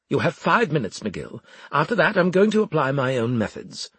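high, forceful warning from the man in charge; domineering Winslade, threatening. A narrator's reading. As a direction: deliver a loud ultimatum. Winslade's threat before leaving.

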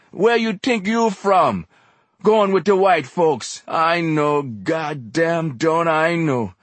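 high, loud, slow-hammered tirade; exhorter, accusing. A narrator's reading. Exhorter turning on the narrator as a betrayer, impassioned harangue. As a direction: build from scorn into loud accusation.

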